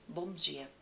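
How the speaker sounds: flat, soft, lifeless good morning; apathetic sad greeting. Shown as a demonstration. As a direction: greet like you're at a funeral. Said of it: "Parece que ele tá triste ou em um velório".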